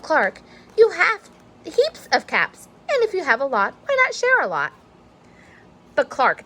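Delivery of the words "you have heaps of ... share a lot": motherly advice. Acted. Mother advises Clark.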